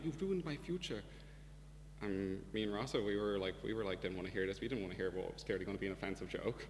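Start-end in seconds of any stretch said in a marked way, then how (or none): 0.0-1.0 higher, slow mock whining teenage girl; a lightly mocked teenage girl crying over the planet, whiny. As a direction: whine it like a teen crying about the planet. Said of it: "cries about the planet saying".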